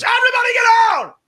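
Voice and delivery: friend yelling high and loud; mock commando yell; retold shout. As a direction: bark the order like a gunman clearing the room. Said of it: "and he goes".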